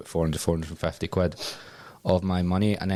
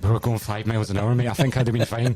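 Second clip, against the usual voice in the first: higher, louder and laughing; laughing retort; 5 semitones higher, 3 dB louder than usual. Retold or imitated. Mocking the instructor's rescue claim, laughing. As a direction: laugh it off, sarcastic.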